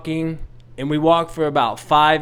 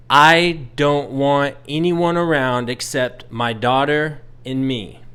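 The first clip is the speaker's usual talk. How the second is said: blunt. Retold or imitated. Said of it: "I have to be blunt".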